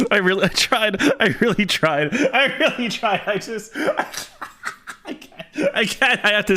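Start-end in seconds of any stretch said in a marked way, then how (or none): 0.1-3.2 laughing. Real, not acted. Laughing through repeated line.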